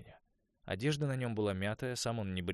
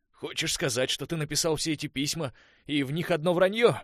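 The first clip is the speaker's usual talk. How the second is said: higher, louder, climbing accusation; angry demand; 8 semitones higher, 10 dB louder than usual. A narrator's reading. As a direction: push him to the wall. Конор в ярости. (Конор гневно допрашивает Уэса, громко)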